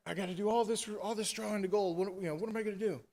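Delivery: high-pitched retold worry; lightly acted helpless plea; mock fretting. Girl begs helper in retold panic.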